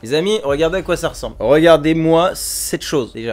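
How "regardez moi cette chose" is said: slow, loud, drawn-out; mock disbelief. Real, not acted. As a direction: show it off in mock horror. Showing the dried banana.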